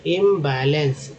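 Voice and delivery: इम्बैलेंस slowly, first syllable held; teacher's slow इम्बैलेंस; sounding out. Shown as a demonstration. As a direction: stretch इम्बैलेंस out part by part. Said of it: "आईएम को इम बोलते हैं".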